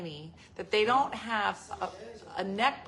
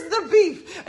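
very high, loud squeaky grandma; teasing impression of grandma; 12 semitones higher, 13 dB louder than usual. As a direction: screech it like a tiny old grandmother. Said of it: "get grandmom to go".

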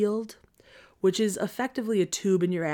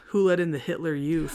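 joking jab. Retold or imitated. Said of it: "joking to Cope".

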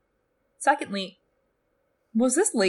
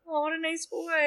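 sarcastic; 9 semitones higher, 4 dB quieter than usual. Real, not acted. Sarcastic remark on cruelty.

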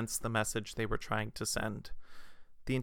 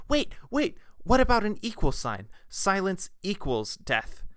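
much higher and louder, then slowing down to land "Silence equals death"; retold eureka shout, much higher and slowed at the end; excited shout; 8 semitones higher, 5 dB louder than usual. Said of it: "who shouted that out".

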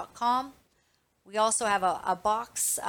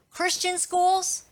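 much higher, slow, stretched disbelief; incredulous; 8 semitones higher, 4 dB louder, slower than usual. Real, not acted. To parents, stunned outrage over Christian schools. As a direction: ask it like you can't believe it.

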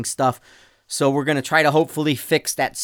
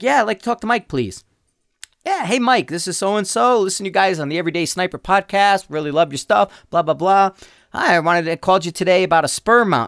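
mock caller voice; 6 semitones higher than usual. Acting out prank phone call.

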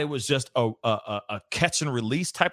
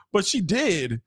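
ordinary talk, nothing marked

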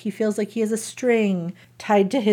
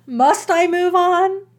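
higher, slow, teary plea; mock tearful Jane; 9 semitones higher, slower than usual. Jane pleading with Rochester, in a mock tearful voice. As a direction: let a fake sob wobble the question.

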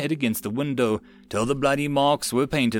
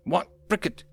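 yelled; 6 semitones higher than usual. A narrator's reading. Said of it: "Peter yelled".

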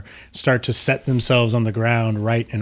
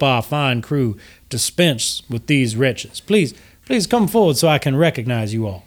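lightly voiced genteel host; gracious host; 2 semitones higher than usual. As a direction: welcome the guests with courtly, apologetic politeness. Game master plays gracious host.

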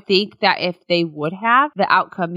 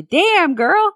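high-pitched, teasing exclamation; imitating a scandalized onlooker; mock shocked reaction; 9 semitones higher than usual. Acting out the reaction to ex-wife.

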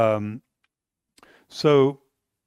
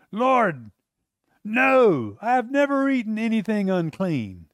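raised, insistent protest; Peter protesting; 5 semitones higher, slower than usual. Acted. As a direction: refuse it outright, voice up. Peter refusing again.

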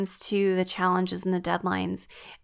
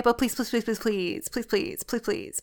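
pleading; 5 dB quieter than usual. Retold or imitated. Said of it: "being like".

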